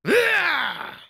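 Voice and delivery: high-pitched attack yell; battle yell. Acted. Fighter striking an opponent, high battle yell. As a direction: let out a long fighting cry.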